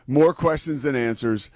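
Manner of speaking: mock storm reporter; lightly put-on newscaster delivery; TV news voice. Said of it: "dipping into my T V news background".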